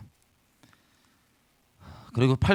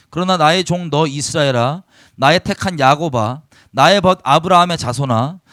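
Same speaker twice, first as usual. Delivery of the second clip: solemn, ringing reading of scripture. Acted. Pastor reads God's words to the congregation, solemn and ringing. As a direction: proclaim the verses firmly to the hall.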